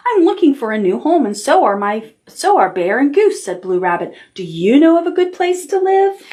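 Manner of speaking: gentle storybook reading; reading to children. Acted. Teacher reading a picture book to the class, storytelling. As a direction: tell it like bedtime story time.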